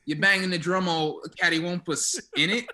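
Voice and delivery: imitating British lads heckling; British accent. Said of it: "some British guys were just going".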